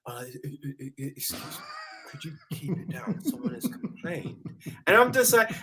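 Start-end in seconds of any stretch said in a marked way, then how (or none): 0.1-4.4 much softer, hesitant stammer; timid usher. Retold or imitated. Cinema usher meekly asking noisy people, softly. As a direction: tiptoe through the request meekly. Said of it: "you were meant to go in".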